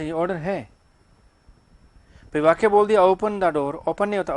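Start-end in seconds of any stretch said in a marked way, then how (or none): 3.0-3.7 firm order. Shown as a demonstration. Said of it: "ये बोलने पे डिपेंड करे".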